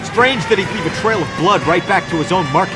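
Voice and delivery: high, projected voice over noise. Acted. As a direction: speak up over the engine. Talking over car chase noise.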